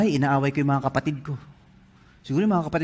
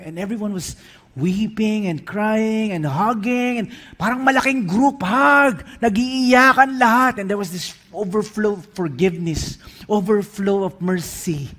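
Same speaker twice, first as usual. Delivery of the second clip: normal talking voice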